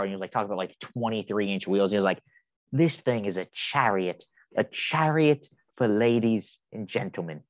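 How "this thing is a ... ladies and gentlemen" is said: slow, measured mock sales pitch; lightly mocked presenter. Quoting the car presenter to co-host, mildly pompous imitation. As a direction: lightly imitate a grand pronouncement, word by word. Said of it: "who talks like that?".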